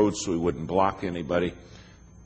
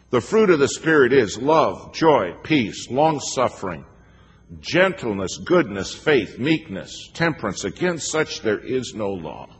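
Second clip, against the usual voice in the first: proclaimed list; 4 semitones higher, 3 dB louder than usual. Acted. Reciting the fruit list.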